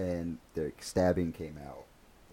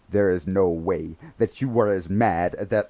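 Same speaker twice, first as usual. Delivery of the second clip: stern sergeant; 9 dB louder, slower than usual. Retold or imitated. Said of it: "he was like".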